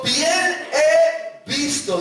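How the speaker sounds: booming voice of God. Acted. Preacher voicing God.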